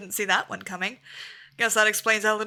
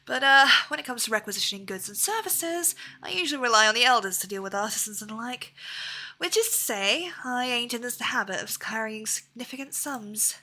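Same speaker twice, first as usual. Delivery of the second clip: lightly voiced rough hunter, a bit defensive; a hint of a proud backwoods hunter; Viper hunter voice. Streamer voicing the Viper insisting he knows money, lightly defensive.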